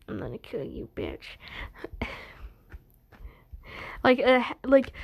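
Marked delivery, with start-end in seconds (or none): 0.1-1.4 much lower, much softer, menacing villain growl; soft sinister whisper of a death threat; creepy threat. Acted. Smiling Dream threatens George. 1.5-2.2 evil chuckle. Acted. Villain laughs after threat.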